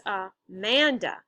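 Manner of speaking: "Amanda" with the weight on MAN, a-MAN-da; stress on second syllable. Shown as a demonstration. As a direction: lean slowly on the middle syllable of "Amanda". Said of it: "the second syllable is stressed".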